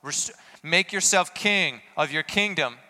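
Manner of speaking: loud, high, slow mocking taunt; mocking crowd jeering at Jesus, loud and high. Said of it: "he's jeered".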